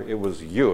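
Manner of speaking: "you" lifted and leaned on; emphatic YOU. Real, not acted. Teacher reading out an emphatic pronoun, stress on "you". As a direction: put the weight on "you". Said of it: "emphatic again".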